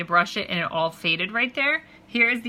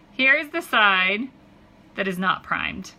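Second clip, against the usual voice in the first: hand over mouth; slower than usual. Real, not acted. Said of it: "Sorry, I'm talking into my hand".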